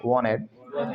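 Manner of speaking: "wanted" as "wah-ned"; American "wanted" with no T after N; silent T. Shown as a demonstration. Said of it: "टी गायब कर दिया".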